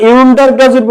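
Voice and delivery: ইউন্ডার with a yu onset as the error; teacher asks the class if they say ইউন্ডার; wrong pronunciation. Shown as a demonstration. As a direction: ask if they say ইউন্ডার, stressing the yoo. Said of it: "না, আন্ডার".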